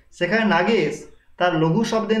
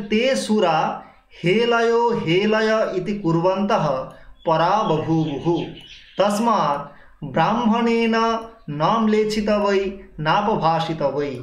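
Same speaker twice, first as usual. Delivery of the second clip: Sanskrit recitation; slower than usual. Shown as a demonstration. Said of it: "বলছেন".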